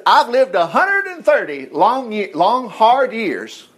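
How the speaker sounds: slow, drawn-out "long, hard years"; a hint of a tired old Jacob; weary old man. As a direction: let the years drag out wearily.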